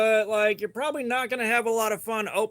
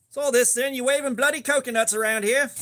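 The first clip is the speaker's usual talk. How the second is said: put-on British bobby accent that drifts toward Australian, at normal pace; mock British copper; 3 semitones higher than usual. A streamer pretending to be a British cop scolding a coconut waver, in a wobbly mock British accent. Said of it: "I think I get trapped somewhere between British accent and Australian accent".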